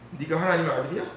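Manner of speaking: lightly sneering jeer with a rising tune; a touch of scornful mockery; mocking taunt. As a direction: taunt him like a crowd at the cross. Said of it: "이러면서".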